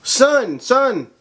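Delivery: put-on high, pleading Zimbabwean-accented mother calling. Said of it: "I'm not making fun of the accent".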